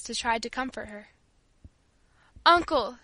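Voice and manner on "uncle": loud outburst to an uncle; abrupt, pleading call; sudden cry. A narrator's reading. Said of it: "she cried suddenly".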